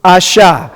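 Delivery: "asha" split as ah-sha; teacher models "asha" as two open syllables; syllable demo. Shown as a demonstration. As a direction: sound out "asha" with sh starting the second syllable. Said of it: "you're gonna pronounce it".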